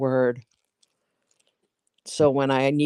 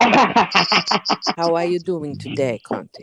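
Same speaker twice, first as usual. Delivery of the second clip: mock Italian accent; much slower than usual. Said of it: "with an Italian accent".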